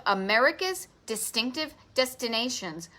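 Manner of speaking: each word of America's distinctive destinations stressed like a title; all caps emphasis. Shown as a demonstration. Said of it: "this is all caps".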